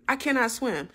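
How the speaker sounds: high, loud, frantic questions; retold panic, voice jumping up high; panicking. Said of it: "I'll be panicking in that water".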